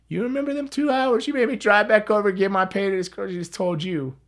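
high and loud, an I-told-you-so rant; exasperated outburst. Retold or imitated. Scolding Luna for making the narrator drive back, exasperated.

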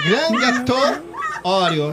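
deliberate French-style dessert name; amateur French, announced with care; attempted French pronunciation. Real, not acted. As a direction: pitch GRAN GÂTEAU up, French-fashion, then drop on OREO. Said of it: "Tá aprendendo a falar francês".

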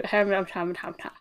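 words collapsing into a mumbled "ham, ham, ham, ham"; garbled words. Shown as a demonstration. Podcast host showing how her intro garbles when rushed, tongue-tied babble. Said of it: "if I say it too fast".

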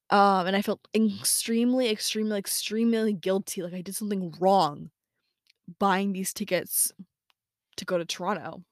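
weighty phrases split by long pauses; slow, dramatic confession. Real, not acted. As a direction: draw out the guilt between pauses. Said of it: "I don't know why I'm speaking so slowly".

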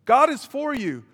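preacher answering doubt with rising fervour; emphatic reply. Retold or imitated. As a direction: insist hard, climbing to a cry. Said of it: "And I say".

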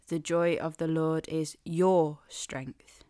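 slow whisper, your stressed; whispered and slowed, the weight on your. Shown as a demonstration. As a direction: breathe it out, pressing on your. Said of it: "emphasize different parts of this phrase".

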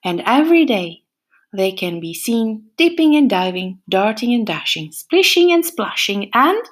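lively storybook reading with playful whispers; animated picture-book narration; reading to children. A narrator's reading. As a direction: read it like story time for little ones. Reads a picture book aloud.

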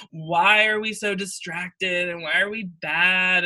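slow, drawn-out mock group-therapy question. Mocking group therapy for kicked-out students, slow. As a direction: lightly parody the sad therapy circle, slowly.

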